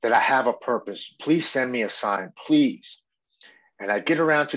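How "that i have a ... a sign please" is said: raised, higher desperate plea, not a full yell; retold plea to the sky. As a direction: mildly re-enact crying out to the sky. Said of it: "I'm yelling up at the sky".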